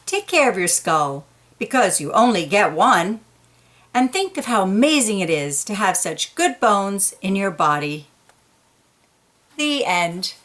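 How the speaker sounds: picture-book read-aloud voice; storybook reading for kids; story narration. A narrator's reading. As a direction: read it to a child, gently paced.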